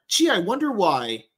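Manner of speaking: slow, high mock puzzlement; sarcastic wondering. Host pretending to puzzle over why someone dominates, sarcastic wondering. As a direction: drag it out with feigned innocence.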